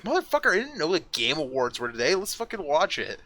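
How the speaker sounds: high-pitched mock outburst at a friend; mock indignation. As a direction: act out exasperated disbelief, starting high. Mock outrage at unseen roommate.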